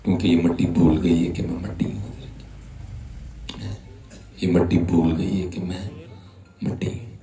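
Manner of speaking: hushed, breathy whispered reveal. Real, not acted. Preacher whispering the lesson to his listeners, hushed. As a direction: drop to a whisper for the answer.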